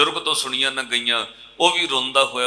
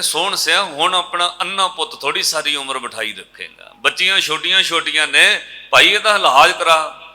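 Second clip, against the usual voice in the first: loud, higher urging plea; urging villagers; 5 semitones higher, 6 dB louder than usual. Retold or imitated. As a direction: press the old man loudly to get help. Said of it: "ਫਿਰ ਲੋਕਾਂ ਕਿਹਾ".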